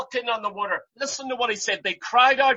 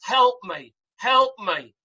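crying for help; 4 dB louder, slower than usual. Retold or imitated. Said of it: "He cried out to Christ".

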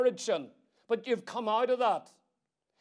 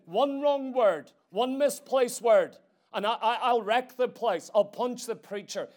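retold fuming threat; 5 dB louder than usual. Preacher imitating angry grandfather at the meeting, mock fury. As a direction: ham up grandad's angry muttering, then laugh. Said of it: "He's sitting there fuming".

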